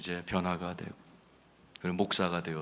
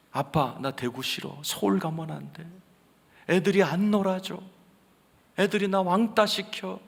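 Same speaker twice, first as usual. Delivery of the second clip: imitating crying son; 6 semitones higher than usual. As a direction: plead like a homesick little boy. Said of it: "매일 밤 울었어요". (울며 조르는 아들 흉내)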